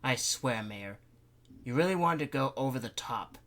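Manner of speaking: a touch of sudden outburst; mild exclaim. Acted. Councilman reacting to the mayor's schedule, mild exclaim. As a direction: blurt it out, lightly. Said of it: "he suddenly exclaimed".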